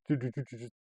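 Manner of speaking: mock nervous stammer; shaking. College kid to mother about the sheriff, shaking stammer. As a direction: stutter on the first word, stuck. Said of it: "just, like, shaking".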